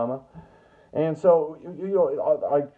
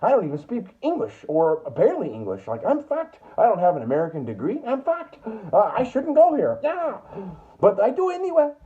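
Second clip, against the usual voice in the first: put-on a light foreign accent, much higher toward the end; non-native English accent; 5 semitones higher than usual. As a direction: play a newcomer who barely speaks English. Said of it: "my universal impression of not English".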